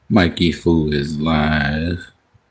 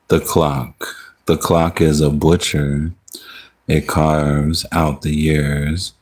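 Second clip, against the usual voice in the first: measured spoken-word reading with drawn-out line ends; poem recitation. Acted. Streamer reading a poem to the chat, measured recitation. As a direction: recite it line by line, pausing after each. Reads own poem to livestream.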